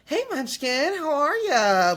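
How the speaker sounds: put-on high, sweet mom voice calling her kid Munchkin; mom's cutesy greeting. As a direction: coo it like a doting mom. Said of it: "it was just the cutest thing".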